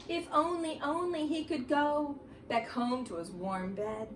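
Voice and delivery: spooky read-aloud for the class; reading to children. Acted. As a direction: draw the kids into an eerie story. Reads Halloween book aloud.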